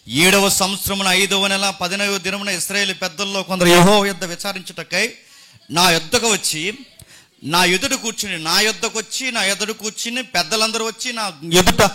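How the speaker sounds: measured, even-pitched Bible reading; declaimed scripture, phrase by phrase. Acted. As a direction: read the verse out formally to a congregation. Reads scripture aloud to congregation.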